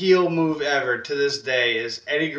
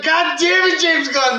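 mock exasperation; 11 semitones higher than usual. Mock cursing at James Gunn.

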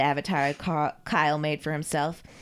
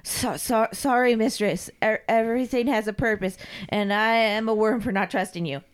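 pitched-up, stammering apology; cowed submissive servant; 3 semitones higher than usual. Acted. Carl begs his mistress's pardon, grovelling. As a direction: grovel to your mistress, tripping over words.

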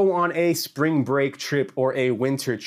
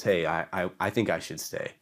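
low, soft, hesitant mumble; reluctant excuse; 6 semitones lower, 7 dB quieter than usual. Acted. Churchgoer begging off from going, reluctant excuse. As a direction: back out quietly, stumbling over the start.

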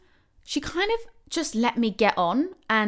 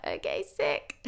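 much lower, softer spaced-out okay; dazed low reply; 14 semitones lower, 6 dB quieter than usual. Retold or imitated. Woman in labour answering the cabbie, low and dazed. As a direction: mumble it like you're out of it.

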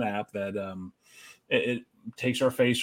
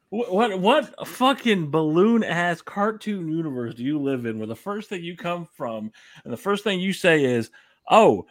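raised, disbelieving rant at his friend's idea; incredulous rant; 3 semitones higher, 4 dB louder than usual. Real, not acted. Ranting at his cohost over a silly example, incredulous and loud. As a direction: demand how anyone thinks of that first.

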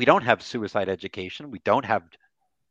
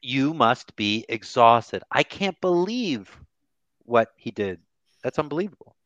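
slow empathetic statement. Shown as a demonstration. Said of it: "That is an empathetic statement".

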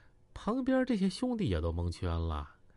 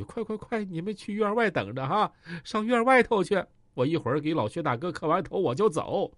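flustered hurried orders; 4 semitones higher, 3 dB louder than usual. Acted. Qi Ming hastily ordering men out.

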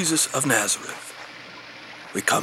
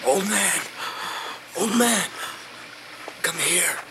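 calling out; 5 semitones higher, 3 dB quieter than usual. Acted. Calling to stranger in rain.

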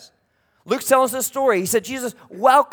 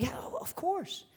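ready agreement; 10 semitones higher, 13 dB quieter than usual. Acted. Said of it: "everybody in this audience is going".

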